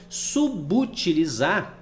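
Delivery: Subutilizar drawn out slowly, each syllable spaced. Shown as a demonstration. Teacher to students, Subutilizar spelled out slowly. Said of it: "ele houve uma união".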